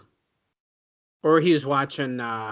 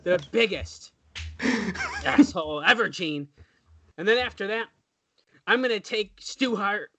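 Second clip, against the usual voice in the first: Ric Flair; 4 semitones higher, 3 dB quieter than usual. Acted. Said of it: "Rick, what do you gotta say".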